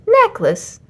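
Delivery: a goose who has no idea, voiced very high; high drawn-out goose puzzlement; puzzled goose. A narrator's reading. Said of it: "said Amelia".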